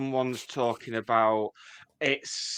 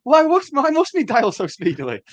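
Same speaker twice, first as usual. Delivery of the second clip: very high, loud hammed-up wail; mock anguished Chandler; 12 semitones higher, 8 dB louder than usual. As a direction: wail it like a melodrama. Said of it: "He's like".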